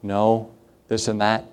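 soft, slow fatherly reassurance; a hint of a father soothing his little girl; gentle explaining. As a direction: kindly settle a scared child. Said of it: "I tried to kindly explain".

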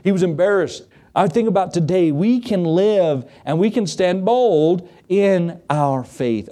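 =free high, drawn-out sermon cadence; preaching. Real, not acted. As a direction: urge the congregation to stand firm. Preacher returns to exhortation.

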